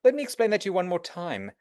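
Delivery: brisk, even, reassuring tone; calm patient reply. Shown as a demonstration. Agent patiently answering an anxious foreign client, calm. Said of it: "you say".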